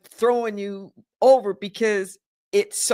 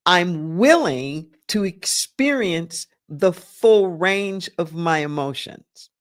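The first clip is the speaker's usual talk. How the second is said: willing drawn out slow and louder, hitting the word willing; slow read of the whole line, pressing "willing" as the key word; stress on willing; 3 semitones lower, 3 dB louder than usual. Shown as a demonstration. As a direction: lean hard on "willing" in a slow, deliberate line. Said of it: "The emphasis on willing".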